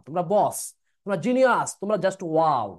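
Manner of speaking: loud, hammed-up praise; butter them up with punchy, exaggerated compliments; mock flattery. Teacher buttering up students who complained about him, hammed-up flattery. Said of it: "এখন শুধু পাম মারবো".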